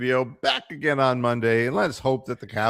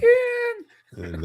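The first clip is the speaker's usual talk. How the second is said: Bullwinkle voice. Pretend. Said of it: "Do the old Bullwinkle".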